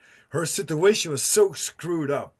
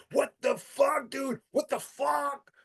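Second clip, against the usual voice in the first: higher, rising panic, fading off; high shocked disbelief; 11 semitones higher, 5 dB quieter than usual. Retold or imitated. Tripping on LSD, reacting to the woman popping out, high and shocked. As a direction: gasp it out, freaked out. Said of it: "And I was just like".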